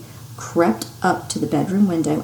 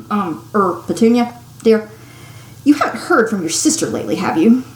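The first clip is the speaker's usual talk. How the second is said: nervous. Acted.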